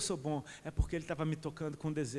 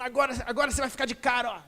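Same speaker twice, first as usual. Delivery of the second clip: playful voice of God; 5 semitones higher, 3 dB louder than usual. Acted. God voiced, throwing love.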